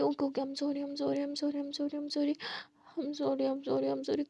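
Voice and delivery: soothing an angry partner; soft repeated sorry. Acted. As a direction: murmur it to calm her. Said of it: "आधे-आधे".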